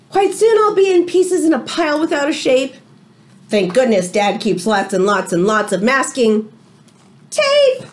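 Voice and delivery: lively read-aloud to the class; story reading. A narrator's reading. Teacher reading a storybook to her class, lively read-aloud. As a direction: tell it like a picture book to children.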